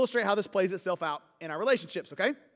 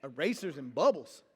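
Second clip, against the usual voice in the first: disbelieving repeat; 8 semitones lower, 5 dB quieter than usual. Acted. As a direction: let it sink in, stunned. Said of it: "Now I'm all up in my".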